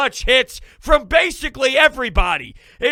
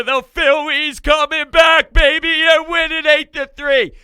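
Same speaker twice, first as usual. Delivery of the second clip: loud, higher-pitched rallying call; excited hype; 5 semitones higher, 7 dB louder than usual. Real, not acted. Host hyping a comeback win to viewers, excited shout. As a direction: hype up the crowd, building louder.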